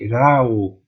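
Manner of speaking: "Ra, o" glided together in one sound; continuous vowels. Shown as a demonstration. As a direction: slide from "Ra" into "o" without stopping. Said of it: "elas têm uma continuidade entre si".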